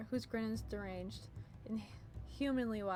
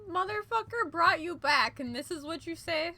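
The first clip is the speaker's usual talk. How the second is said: outraged; 7 semitones higher, 9 dB louder than usual. Real, not acted. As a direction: vent outrage at the villain. Outraged at villain.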